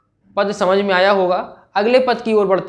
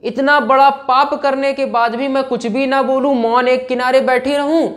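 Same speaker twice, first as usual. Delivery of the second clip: lightly acted distress, pitch raised; mounting agitation; 5 semitones higher than usual. Teacher voices Kaikeyi protesting to the assembly, mildly agitated. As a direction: put some agitated protest into the quote. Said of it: "माता कैकेयी की व्याकुलता बढ़ती जा रही थी".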